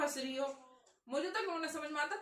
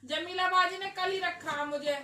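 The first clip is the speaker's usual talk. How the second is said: higher, louder put-on maid insisting; hammed-up servant voice, higher and louder; pretend maid voice; 5 semitones higher, 5 dB louder than usual. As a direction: keep repeating that you're the maid, in a joking voice. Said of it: "मैं मजाक कर रही".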